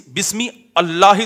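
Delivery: "بسم اللہ" split as bismi Allahi; hamza wrongly sounded. Shown as a demonstration. Teacher rejecting the wrong reading, split apart. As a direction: restart "اللہ" with a full a after bismi. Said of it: "تھوڑی ہے".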